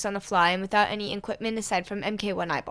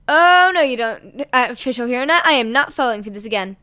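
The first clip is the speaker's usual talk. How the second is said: indignant refusal; 10 dB louder than usual. Acted. Poster refusing bait.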